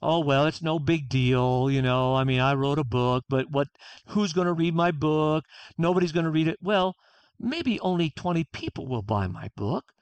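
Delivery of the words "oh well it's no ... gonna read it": self-deprecating dismissal. Retold or imitated. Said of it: "rather than".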